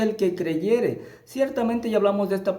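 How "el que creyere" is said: "creyere" drawn out, slow; slow emphatic quote. Shown as a demonstration. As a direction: lean slowly on "El que creyere". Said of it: "Jesús dice".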